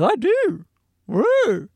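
high, put-on British "I do"; a clumsy go at a British lady; British accent, badly done. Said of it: "I gotta work on my British accent".

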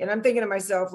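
normal talking voice

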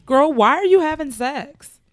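incredulous retort. Retold or imitated. Host talks back to Linda in the film, mock incredulous. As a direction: question her as if baffled.

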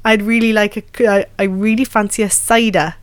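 halting attempt at Geordie that sounds Welsh; Geordie slipping into Welsh. Shown as a demonstration. Actor failing a practice sentence, Geordie accent gone Welsh. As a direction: try Geordie and drift towards Welsh. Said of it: "I sound Welsh".

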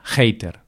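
hater starting with a harsh Spanish J, jater. Shown as a demonstration. Telling the podcast listeners how Spaniards say it, hater with a J. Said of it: "solemos hacer un sonido muy J".

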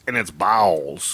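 spooky repeat. Pretend. Cohost echoes the ghost-house joke in a low ominous voice. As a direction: intone it like a haunted house.

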